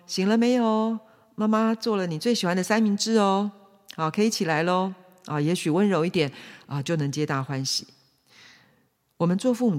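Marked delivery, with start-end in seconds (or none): 0.1-4.9 gentle. Acted. Mother waking child with favourite sandwich, gentle. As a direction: coax a sleepy child awake tenderly. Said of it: "很温柔的说".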